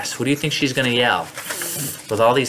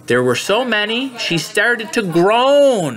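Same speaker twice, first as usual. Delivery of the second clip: higher storytelling voice, drawing out the last words; read-aloud to children; 8 semitones higher, slower than usual. A narrator's reading. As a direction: read it like a picture book.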